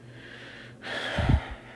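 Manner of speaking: long, heavy exhale; exasperated sigh. Real, not acted. Fed up with stupid promos, heavy exasperated sigh.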